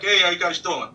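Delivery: chatty New York cabbie voice; New York accent. Retold or imitated. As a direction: greet them like a Brooklyn driver. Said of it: "your New York voice is great".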